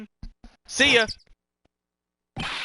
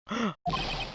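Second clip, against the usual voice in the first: sharp gasp; 5 semitones higher, 9 dB quieter than usual. Acted. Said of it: "Why'd you scream like that?".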